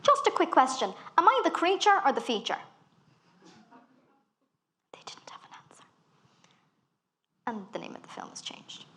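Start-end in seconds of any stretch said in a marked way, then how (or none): 0.0-2.6 higher and louder, sweetly sarcastic; sweet tone masking a pointed question; mock polite cheery challenge; fake-cheery email. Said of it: "I emailed and was like". 4.9-5.8 soft whispered aside; whispered satisfied aside. Real, not acted. Whispered punchline after story.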